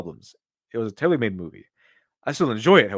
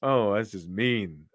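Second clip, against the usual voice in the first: amused drawl; 3 semitones lower, much slower than usual. Real, not acted. After laughing at the joke.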